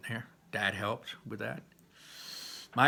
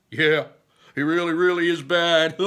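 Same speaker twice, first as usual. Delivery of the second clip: laughing agreement; 7 semitones higher, 10 dB louder than usual. A narrator's reading. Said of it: "agreed Barley".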